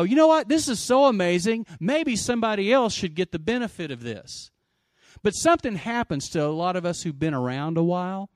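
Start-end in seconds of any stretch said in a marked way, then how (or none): 0.0-4.5 excited realization. Retold or imitated. Imagined believer's excited inner voice.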